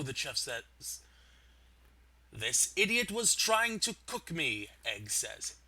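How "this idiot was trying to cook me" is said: indignant egg voice. Acted.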